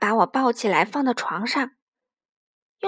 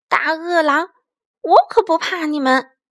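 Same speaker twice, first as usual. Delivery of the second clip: 威胁; 3 semitones higher, 4 dB louder than usual. A narrator's reading. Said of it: "威胁他们".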